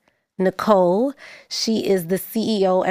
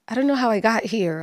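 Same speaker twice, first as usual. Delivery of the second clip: nonchalant; faster than usual. Retold or imitated. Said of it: "so nonchalant and you're like".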